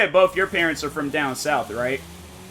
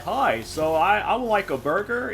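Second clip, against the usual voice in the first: mock "white voice" ordering at a restaurant, a rising lilt; 6 semitones higher than usual. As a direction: play a customer politely ordering a burger, sing-song. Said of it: "put on their white voice".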